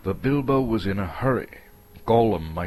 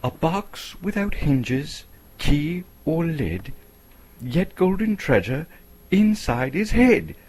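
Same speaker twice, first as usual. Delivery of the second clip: much higher, louder, slow hobbit riddle; Bilbo; 9 semitones higher, 5 dB louder than usual. Acted. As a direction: pose it high and deliberate.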